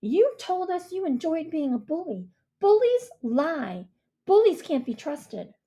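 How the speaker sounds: Mia's cold accusation; accusing girl. A narrator's reading. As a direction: pronounce the judgement. Mia voiced by narrator.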